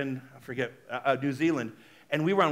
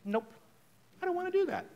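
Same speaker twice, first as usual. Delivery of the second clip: firm refusal; 13 semitones higher, 5 dB quieter, faster than usual. Shown as a demonstration. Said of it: "Just say".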